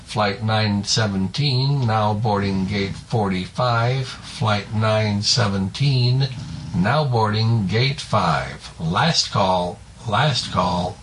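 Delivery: slow, measured gate announcement; airport announcement. Retold or imitated. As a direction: read it like a PA boarding call. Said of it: "where they would say something to the effect like".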